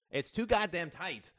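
high, loud angry complaint; crying out. A narrator's reading. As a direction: burst out in protest. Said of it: "cried Justin".

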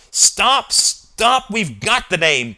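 loud, high, forceful interruption; barked order. A narrator's reading. Al halting the boys' shouted suggestions, barking. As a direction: cut them off with a bark. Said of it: "barked Al".

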